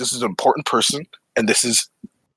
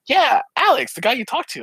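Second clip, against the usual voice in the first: imitated emphatic reply; 14 semitones higher than usual. Imitates friend's emphatic answer.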